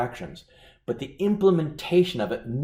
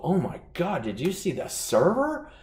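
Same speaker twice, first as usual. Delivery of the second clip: concerned American diners; 3 semitones higher than usual. Retold or imitated. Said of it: "The Americans will go".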